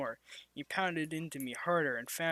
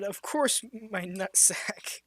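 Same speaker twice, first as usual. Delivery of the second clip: drawn-out higher reply; slow high Karen reply; 4 semitones higher, slower than usual. Acted. Karen agreeing to the threesome, slow and higher. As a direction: savour the absurd line slowly.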